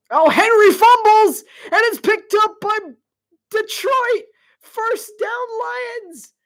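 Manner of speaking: very high, shouted commentary; excited play-by-play. Real, not acted. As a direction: cry out the shock turnover live. Live call of a fumble.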